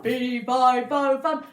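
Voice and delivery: the giant wakes and finds his harp gone, roaring; raging giant. Acted. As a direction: storm about demanding your treasures. Giant chasing.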